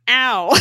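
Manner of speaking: comic exclamation of hurt; mock pained yelp. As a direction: imitate a yelp of pain, half laughing. Coulson hit by flying rock.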